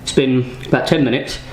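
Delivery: breathless from the chili burn; out of breath. Real, not acted. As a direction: gasp between the words. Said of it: "I'm still struggling to talk and to breathe".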